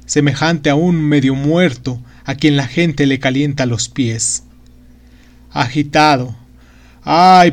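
a lightly voiced trembling old magician in torment. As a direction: plead and rail at a cruel god. The magician's lament.

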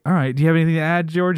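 high, fast retold challenge; mock impatient. Boss to interrupting George during toast, mock impatient.

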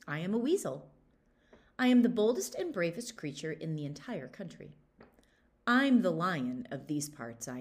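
bold weasel. Acted. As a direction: puff up like a proud little weasel. Weasel boasts of his bravery.

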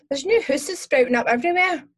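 high, loud excited gush; bubbling over with delight. Acted. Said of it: "he gushed".

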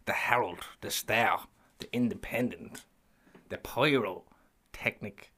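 slow, drawn-out mock news announcement; mock headline news. To his mate, mock newsreader listing papers, slowly drawn out.

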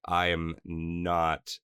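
slow, proud, tongue-in-cheek; mock haughty refusal. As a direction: lightly play the proud Sicilian. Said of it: "I looked at you like".

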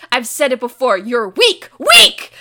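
put-on girl taunting him, rising to a shriek; mean little girl. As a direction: sneer it, then shriek weak. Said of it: "she goes".

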